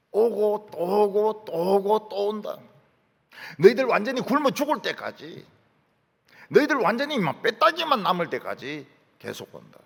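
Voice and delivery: lightly voiced prophet, punchy and insistent; prophet's warning. Preacher voicing Joel's warning of locusts to Judah, prophetic warning. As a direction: pound out each repetition like a warning. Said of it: "요엘 선지는 하나님의 말씀을 전했습니다".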